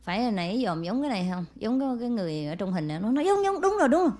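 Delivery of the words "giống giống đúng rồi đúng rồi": put-on excited child. Child recognizes the photo.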